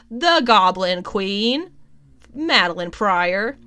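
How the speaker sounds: slow, loud, drawn-out announcement; dramatic reveal. Pretend. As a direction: land the big reveal, stretching each word. Triumphant reveal after feigned question.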